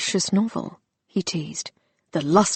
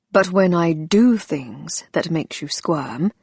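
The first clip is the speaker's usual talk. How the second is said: wicked. Acted. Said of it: "he added wickedly".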